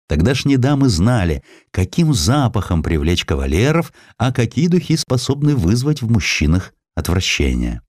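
ordinary delivery

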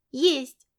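put-on a stubborn girl about to cry; stubborn little girl. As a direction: daughter insisting there is a wolf. Girl insisting before crying.

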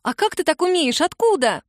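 put-on high, excited girl's voice; eager young girl. A narrator's reading. Girl pestering Kira about drumming, eager and high. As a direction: gush like a thrilled kid.

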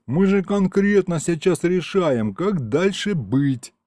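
slow, slangy imp voice; slangy imp insisting. A narrator's reading. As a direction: insist like a lazy tough guy. Imp insists they're deciding.

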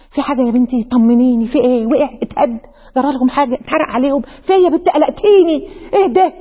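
worried, rising questions of an alarmed friend. Pretend. Frightened friend begging to know what happened at the mosque. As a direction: ask anxiously what happened.

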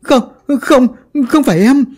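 a traitor pleading with the ghost, pitch soaring; panicked denial. Acted. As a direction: beg and blame, climbing into a shriek. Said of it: "gã khóc lên rồi chỉ thẳng".

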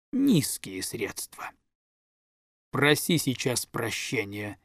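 slow, cold stern reproach; measured, icy lecture to a naughty boy; grandmother scolding. Acted.

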